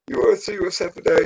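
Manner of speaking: high, excited mock calling to Jerry; gleeful call. Calling his boss Jerry over to see the crash, gleeful. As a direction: grin through it, can't wait to show him. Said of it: "I go".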